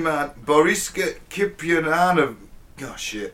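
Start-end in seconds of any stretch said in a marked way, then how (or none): 0.4-2.4 slow, stumbling attempt at a foreign name; struggling with name. Real, not acted. Podcaster attempts the Russian man's name, struggling. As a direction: pick through the syllables slowly. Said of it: "I'm gonna struggle with the name".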